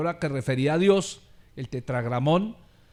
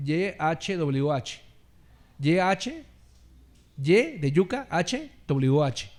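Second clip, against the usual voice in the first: spelling letters slowly; slower than usual. Shown as a demonstration. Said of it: "Esas son las cuatro cosas".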